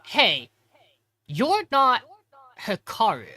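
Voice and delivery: high, loud sudden challenge; accusing Asako. Retold or imitated. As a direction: call him out, voice jumping high. Asako confronting Hikaru.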